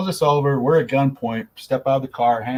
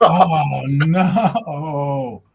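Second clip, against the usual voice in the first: mock dread; 3 semitones higher, 4 dB louder than usual. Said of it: "I'm just like".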